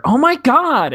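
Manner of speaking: high, loud imitated "Oh my God" squeal; retold excited squeal. Woman boarding the train spots an old classmate, squealing. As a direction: shriek it like someone spotting an old friend.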